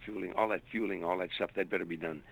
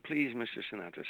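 higher-pitched imitation of a scream; retold pleading scream; 5 semitones higher than usual. Woman screaming after a singer at the limo, mild mock scream. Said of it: "you could hear her screaming".

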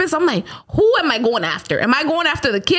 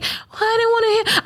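put-on higher timid little-girl voice; meek kid excuse, pitched up; small hesitant child voice; imitating a child; 11 semitones higher than usual. Daughter's reply, imitated.

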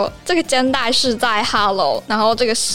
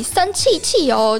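cute voice; 4 semitones higher than usual. Shown as a demonstration. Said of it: "有点装可爱的感觉".

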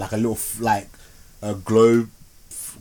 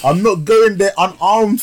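laughing through the words, a bit louder; 8 semitones higher, 5 dB louder, slower than usual. Real, not acted. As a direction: blurt it out mid-laugh, slow. Joking about facing the horror film.

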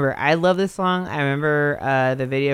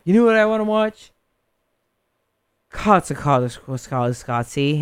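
high self. Retold or imitated. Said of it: "I was high, and I was like".

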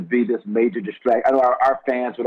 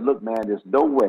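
put-on Philly accent. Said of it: "in that Philly accent".

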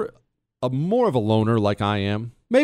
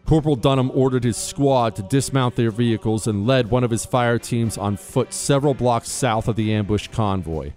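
formal, measured citation reading over music; crisp military citation. Acted. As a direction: read it like an official military honor. Reads a Medal of Honor citation.

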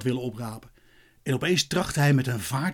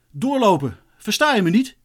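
impatient, raised policeman's call; higher-pitched, exasperated command; called-out order; 5 semitones higher, 4 dB louder than usual. A narrator's reading. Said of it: "riep de agent nog eens".

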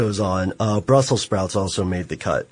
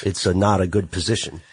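a hint of an Italian mobster accent; slight Italian accent. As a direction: slip into a faint Italian accent. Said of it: "I got a little Italian there".

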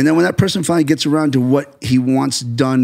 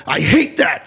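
emphatic retold complaint, slightly raised; 4 semitones higher, slower than usual. Director retelling his blunt criticism, emphatic. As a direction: lean hard on the dislike. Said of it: "when I'm emphatic and I go".

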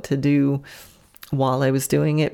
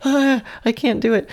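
horse voiced; 8 semitones higher than usual. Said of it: "She was just like".

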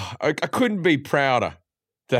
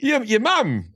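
knowing retort; 9 semitones higher, slower than usual. Retold or imitated. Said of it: "And I'm like".

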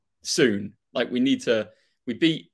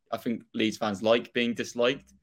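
Norfolk accent. Real, not acted. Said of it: "I say with my really Norfolk accent there".

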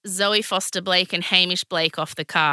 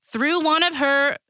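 put-on Southern US accent; 5 semitones higher than usual. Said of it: "I'll do the accent".

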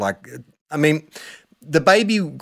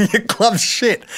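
slowed and higher, each word drawn out; slow mocking sledge; 9 semitones higher, slower than usual. Repeating Silvani's sledge at the player, slow and higher. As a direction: relish the insult, word by word. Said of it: "He was staring at him and said".

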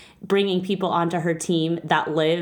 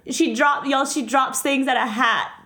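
higher, choked-up voice fighting tears; real tearful; 4 semitones higher than usual. Real, not acted. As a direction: push through the words as emotion takes over. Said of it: "I'm sorry I'm getting emotional".

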